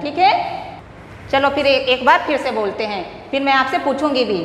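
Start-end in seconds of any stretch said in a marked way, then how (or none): none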